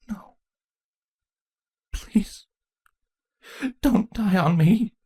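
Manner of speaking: high, slow, pleading whisper. A narrator's reading. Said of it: "Chrysalis whispered".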